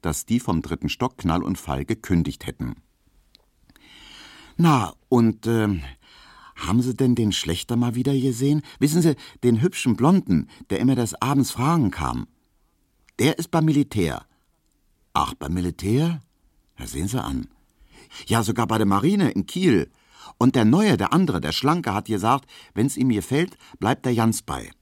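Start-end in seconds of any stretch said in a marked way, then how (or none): 4.6-14.3 put-on high, gossipy young woman; curious young Emma. Emma asks about old suitors. 15.1-24.7 high, chatty Berlin housewife; gossiping landlady. Acted. Piesecke gossips.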